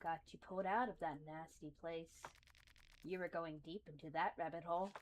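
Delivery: soft, even monotone; calm, flat servant voice; monotonous voice. Acted. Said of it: "greets you in a monotonous voice".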